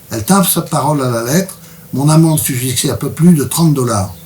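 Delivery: measured book-reading voice; story reading. A narrator's reading. Author's guest reads an expedition passage aloud, story reading. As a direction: read the account aloud to listeners.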